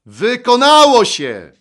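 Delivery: huge, high, drawn-out shout; loud triumphant cry. Acted. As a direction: shout it out slowly at full voice. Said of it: "Co takiego Jezus zawołał donośnym głosem?". (głośny, przeciągły okrzyk)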